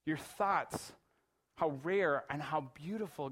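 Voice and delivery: reading a psalm aloud with feeling; scripture reading. Acted. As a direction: read it like a heartfelt prayer. Reads Psalm 139 aloud.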